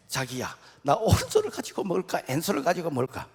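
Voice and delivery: mock bride copying the question; copycat bride. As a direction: ask it parroting the Seoul bride. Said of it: "따라서 했어". (서울 신부를 흉내 내는 경상도 신부)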